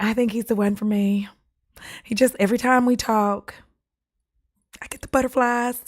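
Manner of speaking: hammed-up smitten bachelorette; gushing contestant. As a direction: imitate a lovestruck contestant. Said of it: "I know how they do their".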